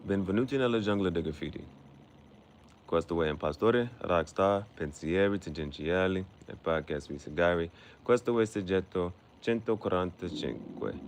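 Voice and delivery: podcast intro in Italian; announcer-style Italian intro. Shown as a demonstration. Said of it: "I finally got my intro down pat".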